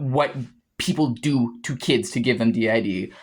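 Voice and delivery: low, seething anger; cursing out the doubters, bitter; Zaliel's heated outburst. Real, not acted. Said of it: "that was Zaliel that said that".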